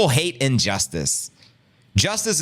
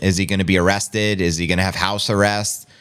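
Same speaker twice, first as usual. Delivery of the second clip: normal talking voice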